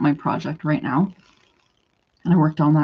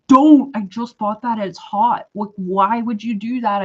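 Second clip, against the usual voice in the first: raised-pitch retold pleading objection; mock exasperated objection; acted protest; 3 semitones higher, 4 dB louder than usual. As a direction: replay a startled protest, first word loud and drawn out. Acted protest over thrown coffee.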